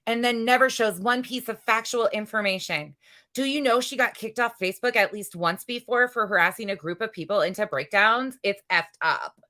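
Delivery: brassy gum-smacking floozy; ditzy sing-song mockery; blonde bimbo voice. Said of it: "my blonde bimbo voice comes out so easy".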